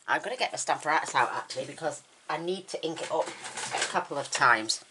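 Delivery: speaking with a numb mouth. Real, not acted. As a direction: talk like just back from the dentist. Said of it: "my mouth is still numb".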